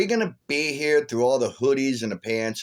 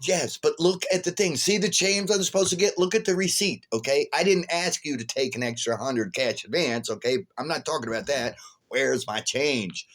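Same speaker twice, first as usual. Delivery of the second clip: raised, insistent complaint; arguing; 5 semitones higher than usual. Retold or imitated. Arguing with the clerk about change, a higher insistent complaint. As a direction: argue your case, voice up high. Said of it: "sitting there arguing with that one".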